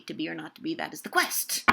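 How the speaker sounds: "To be or not to be, that is the quest" brisk, landing firmly on "quest"; cut off on QUEST. Shown as a demonstration. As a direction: end "that is the quest" abruptly on a stressed QUEST. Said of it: "If it was a play about Fortinbras".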